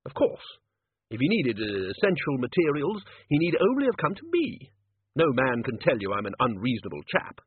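lightly voiced hearty head of college; bluff senior wizard. Ridcully assures Death he is reasonable, lightly voiced bluff wizard. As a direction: insist on your own reasonableness, bluffly.

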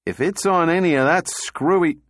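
irritated outburst; glowering. Acted. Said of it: "Donovan glowered".

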